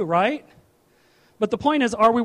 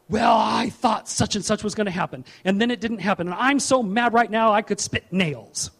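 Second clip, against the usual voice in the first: mild acted grievance rant; mock indignation. Preacher acts out someone flying off the handle, mildly indignant. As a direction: grumble as if let down, slightly worked up. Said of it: "Doesn't get mad and fly off the handle".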